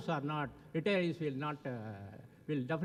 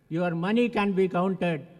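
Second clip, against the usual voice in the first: louder, hammering the point home; louder punchline; 6 dB louder than usual. Retold or imitated. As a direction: say it out to the whole hall. Punchline repeated for the crowd.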